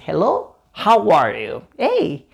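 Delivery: friendly waiter's hello with a smile; cheerful, smiling welcome; smiling greeting. Shown as a demonstration. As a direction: greet the guest brightly, pitch swinging up. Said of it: "Siempre acompañado de una sonrisa".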